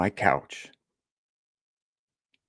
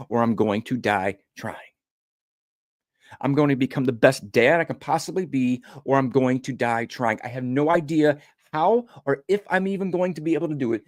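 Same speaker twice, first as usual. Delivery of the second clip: raised, determined declaration building up; resolute vow; 5 semitones higher than usual. Retold or imitated. Father vowing before God to beat anger, resolute. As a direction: swear it like an oath you'll keep.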